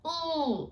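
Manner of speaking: high nervous squeak; a small choked squeak of nerves; squeaky nervous ooh. Shown as a demonstration. Nervous girl on stage, high little squeak. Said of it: "it doesn't come out".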